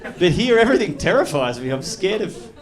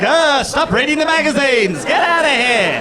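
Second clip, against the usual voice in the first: gruff, louder shooing voice; hammed-up grumpy clerk yelling; mock angry shopkeeper; 7 semitones higher, 5 dB louder than usual. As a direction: shoo them out like a cranky shop owner. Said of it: "just be like".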